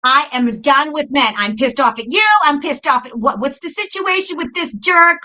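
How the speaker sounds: retold angry rant, pushed and emphatic; re-enacted fed-up venting; pissed-off rant at God. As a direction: vent at God as in a heated complaint. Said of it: "That's how I talked to God".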